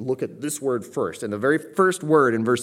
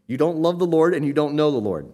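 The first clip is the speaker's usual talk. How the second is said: blunt paraphrase; 4 semitones higher, 5 dB louder than usual. Retold or imitated. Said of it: "is what he's effectively just said".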